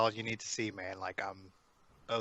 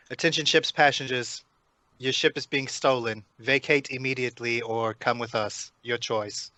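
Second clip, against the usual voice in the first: mock ship's announcer, lightly done; intercom announcement; 5 dB louder than usual. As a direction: announce it to all passengers over the intercom. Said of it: "go on the ship and the shuttle intercom and say".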